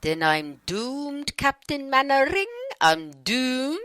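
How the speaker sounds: mock gloom, a hammed-up wail of doom; a hint of a doom-mongering sitcom soldier; Dad's Army doom line. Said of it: "Taken from an English T V show, Dad's Army".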